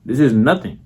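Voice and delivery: quick, offhand and unbothered; nonchalant. Shown as a demonstration. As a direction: brush it off like it's routine. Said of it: "You gotta be like".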